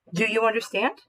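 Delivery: teacher demo of question rise; rising question. Shown as a demonstration. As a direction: let the voice climb on the question. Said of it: "if I'm raising my voice for a question".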